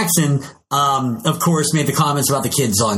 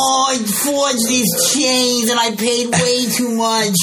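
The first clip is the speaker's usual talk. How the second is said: put-on old Jewish man voice; 6 semitones higher, slower than usual. Old Jewish man griping about overpaying, high slow kvetch. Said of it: "He's an old Jewish man".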